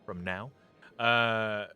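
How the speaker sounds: game master recap voice; story narration. Acted.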